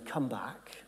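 soft breathy whisper of come back; barely voiced, tender whisper; whispered invitation. The enemy never whispers this invitation to the believer, a soft whisper. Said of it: "won't say".

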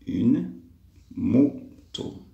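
"moto" split into "mo", pause, "to"; syllable demonstration. Shown as a demonstration. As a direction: pause after "Une", then space out "moto". Teacher splits word for syllables. ("moto" découpé syllabe par syllabe)

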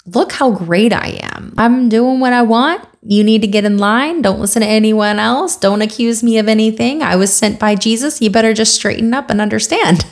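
lightly mocking an arrogant preacher; mildly hammed-up bossy superiority; self-important attitude. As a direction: imitate someone full of himself laying down the law. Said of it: "It's this attitude of, like".

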